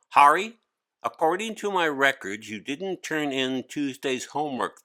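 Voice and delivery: a teacher pointing out missing homework solemnly. Acted. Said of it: "the teacher said solemnly".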